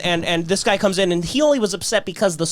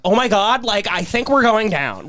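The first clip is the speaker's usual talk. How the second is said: a hint of a ditzy panicked pilot, a bit higher; Valley Girl pilot; 3 semitones higher than usual. Retelling a pilot's black box audio, light Valley Girl. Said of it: "Like Valley Girl".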